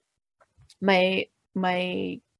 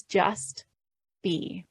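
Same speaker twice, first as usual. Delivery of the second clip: soft mantra; 4 dB quieter than usual. Shown as a demonstration. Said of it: "So the first one".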